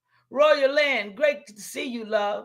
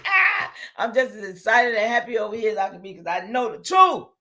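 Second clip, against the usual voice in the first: laughing excitement; 3 semitones lower than usual. Real, not acted. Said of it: "Y'all, I get excited".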